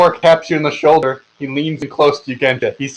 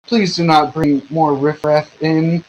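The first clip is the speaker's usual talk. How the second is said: snooty noble; slower than usual. Acted. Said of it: "he says".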